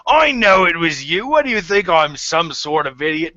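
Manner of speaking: loud, high burst of amused disbelief; laughing outburst. Acted. Blacktooth answers Pebble's confession about the ink, laughing. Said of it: "And he's laughing, and he says".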